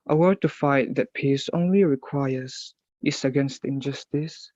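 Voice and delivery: measured poetry reading with pauses between lines; deliberate, declaimed verse; poem recitation. Acted. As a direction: recite it formally, line by line. Recites own English poem.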